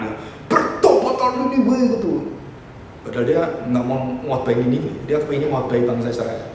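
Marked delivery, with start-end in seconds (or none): 0.5-1.9 higher, slow, drawn-out angry cry; mock angry call to repent, stretched out; Yunus. Preacher imitating the reluctant prophet crying out to Nineveh, angry. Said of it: "teriak dengan teriak yang betul-betul marah".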